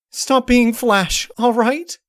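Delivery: high, slow, tearful begging; whimpering plea. Acted. Twilight, sobbing, begs the changeling to drop the disguise. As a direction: beg him to stop, sobbing. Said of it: "whimpering like a kicked dog".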